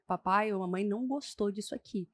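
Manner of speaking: put-on quiet, controlled firmness with a child; firm, low-key parent. Shown as a demonstration. Parent crouched to correct a child, low-key firm voice. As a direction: set a boundary without raising your voice. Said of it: "olha nos olhos da criança e fala firme".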